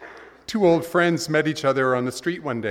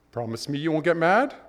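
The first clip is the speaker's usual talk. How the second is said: pleading man; 4 semitones higher than usual. Retold or imitated.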